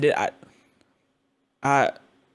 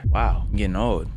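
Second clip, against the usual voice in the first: ordinary talk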